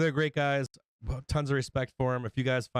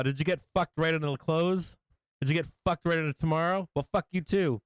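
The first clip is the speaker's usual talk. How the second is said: mock smug taunt; 4 semitones higher than usual. Mocking the service's smug reply.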